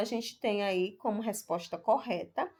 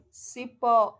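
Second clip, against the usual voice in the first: cipó with a strong, louder final PÓ; stress on the last syllable; 5 dB louder than usual. Shown as a demonstration. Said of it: "Todas elas possuem a última sílaba tônica". (cipó com a última sílaba forte)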